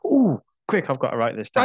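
high, loud excited outburst, then settling; hammed-up sudden inspiration; mock eureka. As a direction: burst out as if seized by an idea. Acts out an improv class moment.

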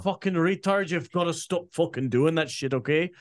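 mock-Irish scolding rant; Irish accent. Guest proving the accent excuses swearing, Irish accent. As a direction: tell them off in a put-on Irish accent. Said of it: "when you say it like that".

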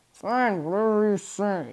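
talking through a mouthful of chocolate; mouth full. A narrator's reading. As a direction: say it while chewing. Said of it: "through a mouth full of chocolate".

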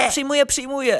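mildly squeaky, high surrender; a touch of panicked squeak; frightened squeal. A narrator's reading. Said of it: "pisnąłem jak mała".

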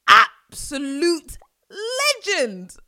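tearful praise for a lost legend; choked-up tribute. Real, not acted. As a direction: let the voice break on it. Grief over a famous singer.

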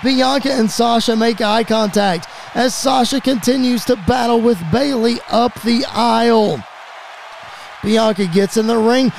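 measured but energised wrestling call; play-by-play. Acted. Commentator follows the brawl up the aisle, play-by-play. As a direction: keep the tension up between big moments. Play-by-play settles after run-in.

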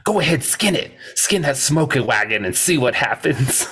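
lightly acted tough-guy dare; a hint of a lawman's challenge; Wyatt. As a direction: quote the dare, starting high. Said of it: "Wyatt goes".

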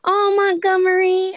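high, loud, drawn-out squeal; excited squeal. Real, not acted. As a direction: burst out with sudden glee. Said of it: "I just got really excited".

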